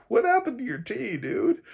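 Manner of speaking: high, loud laughing question; laughing disbelief. Real, not acted. Mocking the killer's hypocrisy.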